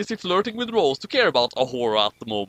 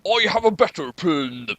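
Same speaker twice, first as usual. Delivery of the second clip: Sean Connery. Retold or imitated. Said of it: "I have to imitate Sean Connery here".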